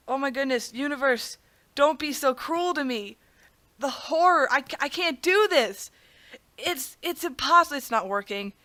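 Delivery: mock pleading with the universe; feigned despair. Player begging the universe not to be cruel, pretend despair. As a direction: play the helpless victim, slightly hammed-up. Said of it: "I'm gonna try to fake it out".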